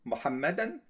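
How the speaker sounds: محمدا said mu-ham-ma-dan, ending in -an; correct case ending. Shown as a demonstration. Teacher models محمدا with the -an ending. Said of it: "so محمد is wrong".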